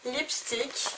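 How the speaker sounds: slow English words in a heavy French accent; English said awkwardly, French-accented; bad English accent. Real, not acted. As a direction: read the English product name slowly with a French accent. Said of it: "mon accent anglais, euh, complètement affreux".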